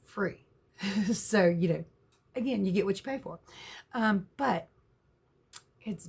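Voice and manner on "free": free set off as the key word; stress on free. Real, not acted. Reminding viewers why the trailer needs gutting, stress on free.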